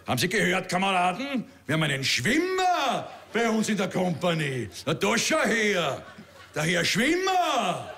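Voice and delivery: gedehnt und höhnisch gezogen; spöttischer Major. Retold or imitated. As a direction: den Rekruten vor allen verspotten. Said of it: "und gesagt". (Major verhöhnt den Schwimmer vor der Kompanie)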